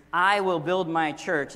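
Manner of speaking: loud, slow "I" leading the phrase; stress on I. Shown as a demonstration. Preacher introducing his key phrase, stress on "I". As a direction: lean hard on "I" and keep the phrase slow. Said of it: "We will emphasize a different word".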